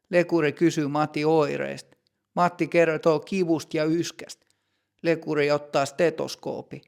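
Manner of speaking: usual speaking voice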